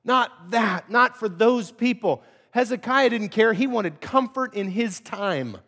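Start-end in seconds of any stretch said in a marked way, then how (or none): 0.0-2.2 anguished plea. Acted. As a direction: plead against it with feeling. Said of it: "responded with a heart that says".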